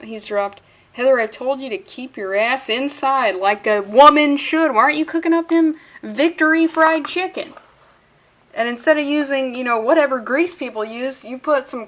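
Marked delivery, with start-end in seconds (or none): 0.9-7.5 louder, emphatic mock telling-off; mock scolding. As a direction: act out an exasperated scolding. Voicing character scolding a woman.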